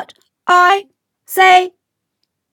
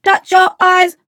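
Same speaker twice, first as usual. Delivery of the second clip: faster. Shown as a demonstration. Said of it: "Now do it faster".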